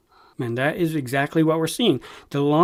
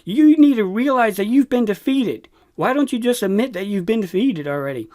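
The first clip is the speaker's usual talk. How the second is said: imitating desperate insistence, pitched up; desperate pleading; 6 semitones higher, 3 dB louder than usual. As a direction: plead it as if mimicking a desperate government. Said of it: "in a very desperate tone of voice".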